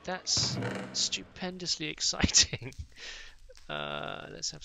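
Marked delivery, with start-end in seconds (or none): 0.0-2.7 mock excitement. Real, not acted. Mock excitement about wood.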